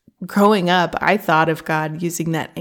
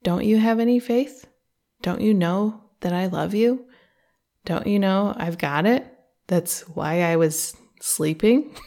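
sincere curiosity. Retold or imitated. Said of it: "questioning with this sincere curiosity".

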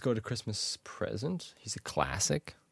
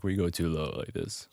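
too low; 5 semitones lower than usual. Shown as a demonstration. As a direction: voice dropped low. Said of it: "I keep doing the low drop".

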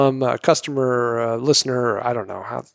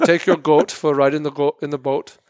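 playful mock Minnesotan accent on "goat" and "boat"; Minnesota accent. Host teasing the Minnesotan, mock Minnesota accent. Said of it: "how do Minnesotans say".

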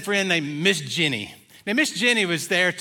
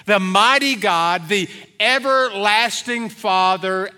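prophetic recitation; 2 semitones higher than usual. Acted. Pastor reading Isaiah's prophecy to the congregation, proclaiming. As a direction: proclaim each title, swelling then hushing at Prince of Peace. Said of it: "when he said".

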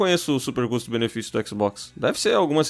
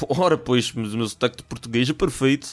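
mock Portuguese accent. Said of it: "tu começa a fazer o sotaque de português".

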